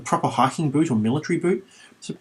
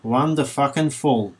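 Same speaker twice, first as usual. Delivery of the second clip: sarcastic; 2 semitones higher than usual. Acted. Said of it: "very sarcastically says".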